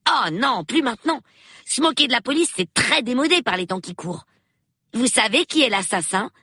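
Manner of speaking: put-on high, quick child's voice; eager young boy. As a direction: pitch it up like an inquisitive boy. Reader voices young Peter. (voix aiguë de gamin curieux)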